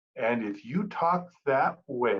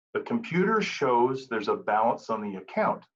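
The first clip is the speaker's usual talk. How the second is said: lower, even and matter-of-fact; neutral, objective; 4 semitones lower than usual. Shown as a demonstration. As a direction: calmly let the computer take the blame. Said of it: "that's an objective fact".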